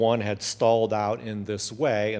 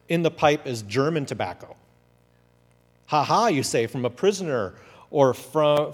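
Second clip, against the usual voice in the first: lively, lightly raised letter reading; letter read aloud; 3 semitones higher than usual. Acted. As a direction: read the letter like a proud young soldier writing home. Reads a soldier's letter aloud.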